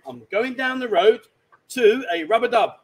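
exaggerated slow clue; drawing it out so he gets it; slow, loud spelled-out hint. Shown as a demonstration. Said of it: "let's use a bit of common sense".

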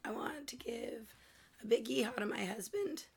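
unvoiced whisper; barely voiced, saving her voice; hoarse whisper. Real, not acted. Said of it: "doctor said twenty-four hours, no talking".

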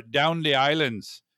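amateurish Caribbean island accent, slowed down; slow, badly faked island accent; attempted island accent. Shown as a demonstration. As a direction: have a clumsy go at an island accent. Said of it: "my attempt to do that accent".

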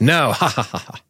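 laughing, teasing reply; giggly mock taunt.

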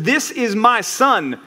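slow, a touch weighty; mild booming heavenly voice. Acted. Pastor voices the Father's voice, slow and mild. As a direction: lightly voice God from heaven. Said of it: "this booming voice come from heaven".

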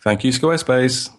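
slow airport announcer. Pretend. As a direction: do a drawn-out public-address announcement voice. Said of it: "That was my airport voice".

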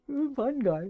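fun guy split as two words, soft. Shown as a demonstration. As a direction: say fun guy like a joke pun. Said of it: "I love that, fun guy".

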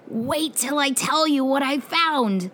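scared or proud secret-telling. A narrator's reading. Boy about to share his secret with friends, eager. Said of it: "wasn't sure if he was scared or proud that he had a secret to tell".

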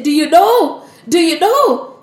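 high, eager questioning; excited urgency. Acted. Narad Muni runs to Shivji with news, excitedly urgent.

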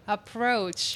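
"approach" said in English within Spanish; English word "approach" with English sounds; spanglish. Real, not acted. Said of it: "disculpen el Spanglish".

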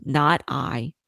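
a lightly voiced lazy pig; gruff pig. A narrator's reading. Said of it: "the pig with a grunt said".

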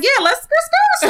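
high, loud, laughing burst; excited, laughing yes; eager agreement. Retold or imitated. Retold eager agreement to try truck.

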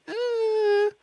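a drawn-out, high doubtful "eh"; hesitant skeptical eh. Retold or imitated. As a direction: voice the inner hesitation slowly. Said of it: "It's like".

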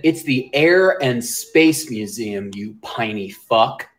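mocking Philly accent. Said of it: "And they said".

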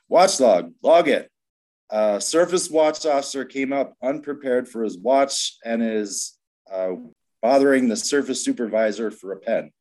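drill-sergeant style call to log it; loud Army yell. Retold or imitated. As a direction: belt it out so the whole room hears. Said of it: "yells in his loudest, deepest Army voice".

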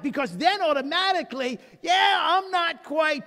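mock excited shout.

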